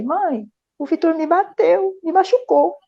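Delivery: put-on high, slow, tearful little boy complaining; a hint of a crying child. Younger son telling his mother he was hit, mildly tearful. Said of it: "meu filho mais novo veio chorando".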